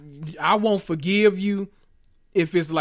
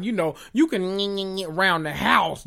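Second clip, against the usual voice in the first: quoting Gina; 2 semitones higher than usual. Retold or imitated. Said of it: "Gina told Pam on Martin".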